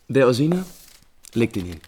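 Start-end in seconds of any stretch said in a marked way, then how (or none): 0.1-0.6 surprised. Acted. Prinz überrascht vom Brief.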